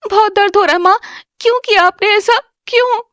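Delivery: high, tearful pleading; weeping girl begging her stepmother why; crying in pain. Acted. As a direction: sob out the question, hurt and betrayed.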